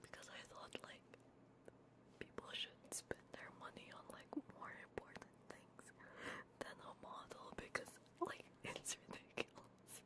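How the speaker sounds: soft, breathless whisper through tears; a shaky whisper while crying. Real, not acted. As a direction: whisper it, too choked up to speak. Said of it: "sorry for crying".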